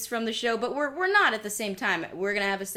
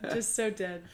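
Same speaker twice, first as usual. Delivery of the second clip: deadpan dead voice; 5 dB quieter than usual. Pretend. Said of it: "I'm dead".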